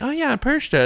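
high-pitched imitation of a kid; kid's voice. Cohost imitating a kid pronouncing the name, high child voice. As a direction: pipe it up high like a child in a video. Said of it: "So a kid will be like".

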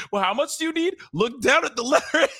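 high, giggly playing both sides; laughing reenactment. Host acting out teller and robber, laughing. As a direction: act out the exchange while laughing. Acted back-and-forth, laughing.

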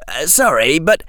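put-on a confused, apologetic boy; young Harry voice. Harry speaks in the story.

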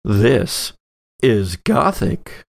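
usual speaking voice

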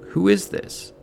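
high, questioning read of a puzzled man; Gary questioning the caller. Acted. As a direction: demand the caller's name, pitched well up. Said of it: "Gary picks up the phone and says".

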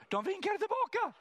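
laughing high-pitched punchline. Real, not acted. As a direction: burst out laughing, voice way up.

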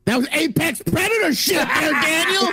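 hype shout. Acted. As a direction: shout it like a fight announcer. Hyping Phil's famous line.

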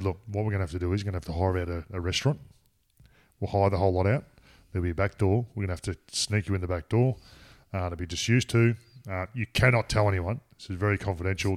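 a hint of a deep, calm security man; lightly voiced bodyguard, cool and collected. Retelling the bodyguard's phone call, lightly voiced, calm. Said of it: "deep voice, spoke very calmly".

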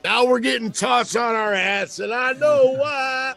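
mock shouted accusation. Friends blaming the guy who got high, mock shout. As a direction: call out the culprit in jest.

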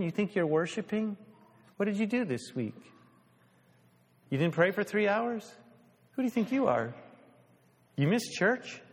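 a hint of a mocking accuser; accusing inner voice. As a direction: needle yourself like a harsh critic. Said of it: "Ever heard that voice?".

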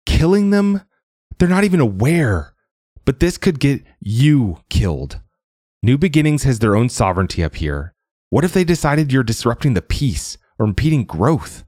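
a frightened daughter pleads, voice climbing; wailing. Acted. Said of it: "Sia wailed".

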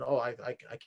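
soft, breathy-free hush with no laugh; mock soft deadpan. Imitating the skit woman in a soft hushed deadpan. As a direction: keep it hushed and dead serious. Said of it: "they're whispering it".

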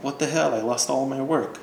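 a touch of exasperated disbelief; dismayed player character. Acted. Game master voices the player's character after a blackout, lightly dismayed. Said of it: "and you're like".

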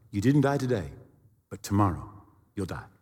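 low, hushed menacing pronouncement; inner voice. Retold or imitated. Voice inside threatens the pilot, low and ominous. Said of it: "I heard a voice".

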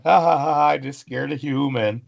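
ha ha it out like a pleased creature; mock laughing Sasquatch. The Sasquatch walks off from the human, mock laughing. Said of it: "it walks away laughing".

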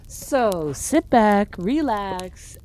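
slow eerie campfire voice; spooky storyteller. Acted. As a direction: draw it out like a ghost story. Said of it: "here to tell you some spooky stories".

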